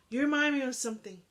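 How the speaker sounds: delighted remark. A narrator's reading. Old lady speaks to her dog.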